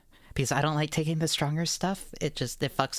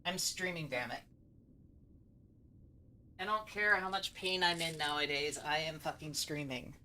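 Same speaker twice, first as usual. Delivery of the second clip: muttering; 9 dB quieter than usual. Real, not acted. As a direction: grumble it quietly to yourself. Defiant muttering despite pain.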